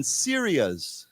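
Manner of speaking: SYRIA'S said alone, stress on first syllable; model pronunciation. Shown as a demonstration. Teacher drilling a word with students, clear model of SYRIA'S. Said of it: "Let's say that word again".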